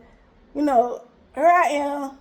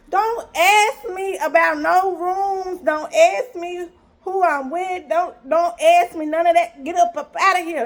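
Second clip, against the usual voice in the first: indignant refusal; 3 semitones higher than usual. Retold or imitated. Telling him off about rooms.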